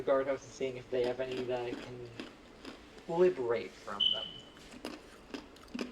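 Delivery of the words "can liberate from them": talking around chewed ice; ice in mouth. Real, not acted. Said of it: "Sorry, I'm chewing on ice".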